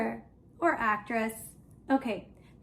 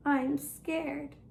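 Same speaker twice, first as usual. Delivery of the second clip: softer, timid mock fear; scared; 5 dB quieter than usual. Shown as a demonstration. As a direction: act a small, quiet fright. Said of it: "I'm really scared".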